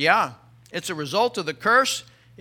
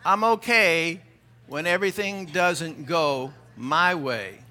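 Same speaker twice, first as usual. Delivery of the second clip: slow; 3 semitones lower, slower than usual. Shown as a demonstration. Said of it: "Some of you couldn't even say it".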